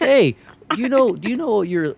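mock door-to-door salesman opener. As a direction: play the pushy energy rep. Imitating energy salesman pitch.

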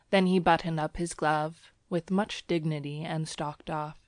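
plain reading voice

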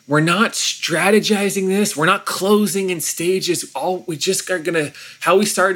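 a lightly acted declaration of honesty; earnest resolve. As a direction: lift it high and lay each word down deliberately. Retelling their resolve to the church.

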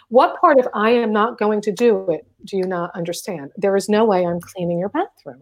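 calm, controlled refusal, evenly delivered; really calm. Retold or imitated. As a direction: retell a firm refusal in a calm, low-key voice. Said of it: "I stayed really calm like this".

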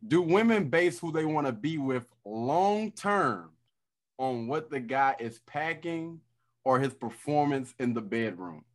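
robotic glitchy connection; choppy call audio breaking up; glitchy jumping pitch. Real, not acted. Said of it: "you sound like a robot right now".

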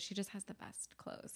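hushed, slow aside; admiring outfit under breath; whispered admiration. Real, not acted. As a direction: breathe it out in awe.

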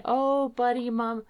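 high, pleading mom apology; retold mother apologizing to her small son, tearful and high. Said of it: "I start crying, and I'm saying".

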